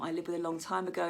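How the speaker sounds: normal talking voice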